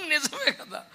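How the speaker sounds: slow laughing agreement. Real, not acted. Amused preacher laughing at pastor's doubt. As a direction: laugh it out slowly.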